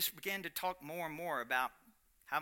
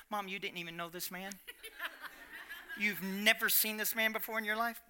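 laughing disbelief; 4 semitones higher than usual. Retold or imitated. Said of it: "I'm going".

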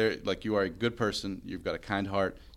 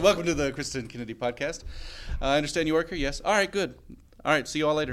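mock brisk host; 4 semitones higher than usual. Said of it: "She'd be like".

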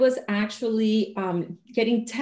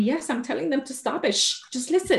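teacher shushing class; 6 semitones higher than usual. Retold or imitated. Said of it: "And she told me".

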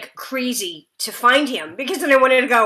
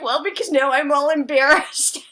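tearful; 4 semitones higher than usual. Retold or imitated. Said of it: "I'm literally crying".

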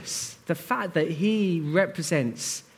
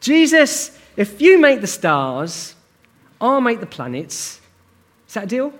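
lightly voiced God; 4 semitones higher, 4 dB louder than usual. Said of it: "this is God speaking, by the way".

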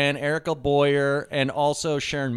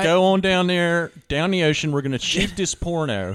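put-on slow, mild Baltimore accent; lightly drawn Baltimore drawl; 3 semitones higher than usual. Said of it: "Baltimore accent".

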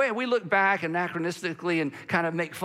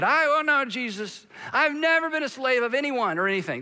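mock protest; 6 semitones higher than usual. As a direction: play the indignant believer, pitched up. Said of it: "here's how we would say it".

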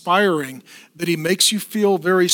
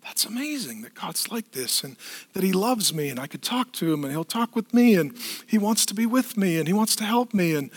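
put-on kid-like wonder. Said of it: "sense of kid-like wonder".

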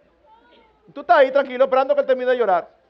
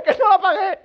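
high mock child whine; child confessing; 8 semitones higher, 4 dB louder than usual. Child finally confessing to a parent, high whiny mock voice. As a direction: give in like a worn-out kid, high-pitched.

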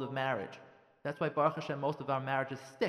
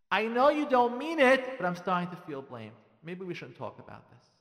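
gentle non-blaming tone; 5 dB louder than usual. Shown as a demonstration. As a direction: say it gently, not accusing. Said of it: "you hear the, the way I'm saying it?".

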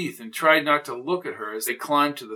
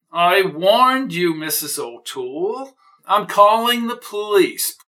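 loud, slow "I warned you"; angry outburst; 5 semitones higher, 5 dB louder than usual. Acted. Daniels turns on Mrs O'Toole, loud and angry. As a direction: snap at her, then storm off.

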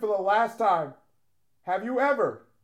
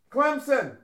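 higher, mildly yelled announcement; yelling out names; 4 semitones higher than usual. Pretend. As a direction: call the name out to a crowd. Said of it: "Why are you yelling?".

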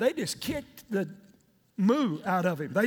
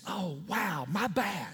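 low, subdued mock regret; abashed little retold admission; sheepish realization; 6 semitones lower, 5 dB quieter, slower than usual. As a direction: let it sink in, softly. Forgetful servant remembers Joseph, abashed.

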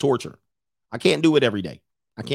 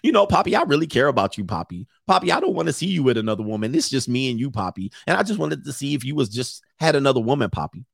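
put-on cute girlfriend. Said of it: "She gets little cute".

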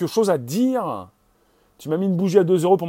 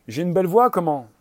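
louder, lifted, rising on VOIX; showy raised voice; 3 semitones higher, 4 dB louder than usual. Acted. Host admires own voice at the mic, showy raised voice. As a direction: show off, pitching "voix" up. Comic routine, first raised take.

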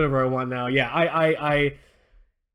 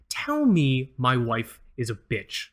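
slow demand; 4 semitones lower, much slower than usual. Retold or imitated. Boss demanding, retold slowly.

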